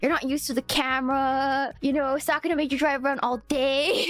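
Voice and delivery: imitating a friend soothing, even and unhurried; calming reassurance. Friend calming the upset driver, reassuring. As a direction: gently list excuses for someone upset. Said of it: "doing her best to calm me down".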